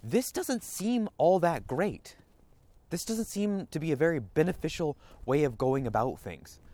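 calm reasonable parent. Pretend. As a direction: step back and weigh it aloud. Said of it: "had the wherewithal to go".

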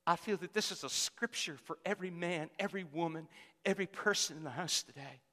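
quiet earnest preacher; hushed sermon voice. Real, not acted. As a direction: drop to a soft, intimate hush. Soft intimate scripture intro.

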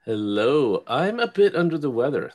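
stuffy voice with a cold; congested. Real, not acted. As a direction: speak as if your nose is blocked with a cold. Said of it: "something's going on with my throat and I'm a little congested".

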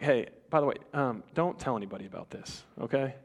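a quiet word just between us; hushed aside. Retold or imitated. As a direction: lean in and keep it secret. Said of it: "He's like".

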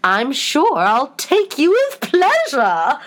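high, very slow, stretched words; theatrical storybook queen; grand White Queen. A narrator's reading. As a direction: proclaim it grandly, dragging each word. Queen offers a job, acted.

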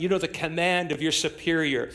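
normal talking voice

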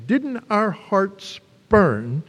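wondering slowly. Retold or imitated. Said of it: "They said".

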